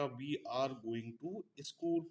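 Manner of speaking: very slow, word by word; slow model sentence. Shown as a demonstration. Teacher dictating example sentence to students, very slow. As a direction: dictate it slowly for the class. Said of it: "तो इसके साथ are आएगा".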